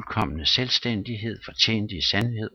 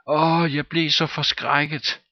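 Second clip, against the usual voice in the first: put-on slow, higher whimpering boy; scared child; 7 semitones higher, 3 dB louder than usual. A narrator's reading. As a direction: sob it out like a frightened boy. Frightened child answers. (bange barn)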